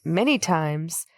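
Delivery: slow, lightly voiced villain; a hint of drawn-out menace; evil voice. Co-host giving Pinhead's reply, lightly evil and slow.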